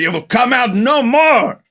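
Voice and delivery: lightly put-on voice of a grave old sorcerer; imitating Egg Shen.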